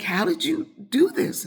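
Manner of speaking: high, loud incredulous question; imitated astonishment. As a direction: demand it like an amazed friend. Friends demand to know her method.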